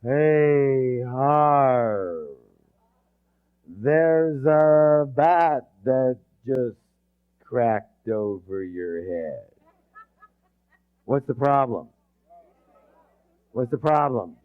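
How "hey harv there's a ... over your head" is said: slow, lazy, unbothered drawl; no urgency at all; too calm for a bat swinging; nonchalant warning. Shown as a demonstration. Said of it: "your buddy says to you".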